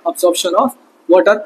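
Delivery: Absorption of water said word by word, very slowly; slow, deliberate dictation of each word; slow, dictating. Shown as a demonstration. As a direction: spell it out slowly so students can write it down. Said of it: "क्या हो रहा है?".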